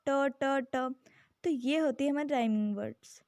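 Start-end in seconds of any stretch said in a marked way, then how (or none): 0.1-0.9 ट said as a crisp, separate t sound, three times; repeated t sound. Shown as a demonstration. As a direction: tap out ट, ट, ट so the ending is clear. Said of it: "ट का sound last में आ रहा है".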